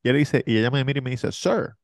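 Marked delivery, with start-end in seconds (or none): 1.3-1.8 flight attendant voice. Retold or imitated. Flight attendant addresses man.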